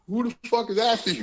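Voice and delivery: baffled and amused retort; laughing disbelief. Retold or imitated. Laughing at his high brother's claim, laughing disbelief.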